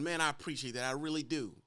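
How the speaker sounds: grateful driver. Retold or imitated. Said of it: "they're polite".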